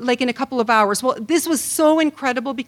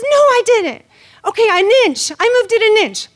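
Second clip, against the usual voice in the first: whiny denial, caving; 10 semitones higher, 7 dB louder than usual. Retold or imitated. Wife denies, then admits.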